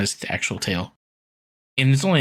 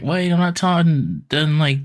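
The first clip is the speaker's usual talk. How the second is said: higher, slower mocking Irma; 6 semitones higher, 4 dB louder, slower than usual. Friend mocking Irma's whiny excuse. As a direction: do Irma whining, higher and drawn out.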